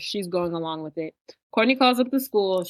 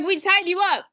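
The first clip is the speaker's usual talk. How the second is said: mocking voice. Mocking the kidnappers' plan.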